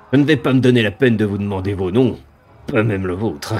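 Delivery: sneering monster voice with cackles; mocking demon. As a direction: taunt them from above.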